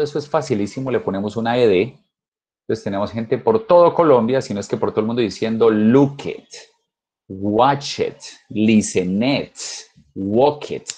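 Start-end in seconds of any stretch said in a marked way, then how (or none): 5.7-10.9 "look it, watch it" with an extra "it" sound; wrong "ed" as "it". Shown as a demonstration. Teacher mocking a student's wrong past tense, saying "it". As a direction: say each past verb with a spoken "it" tacked on. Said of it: "cómo suena de Tarzán".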